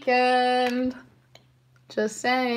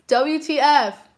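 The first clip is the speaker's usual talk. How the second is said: loud, slow spelled-out disbelief; letters punched out in shock; stunned W T F; shocked outburst; 4 semitones higher, 6 dB louder, slower than usual. Real, not acted. Shocked at finding account.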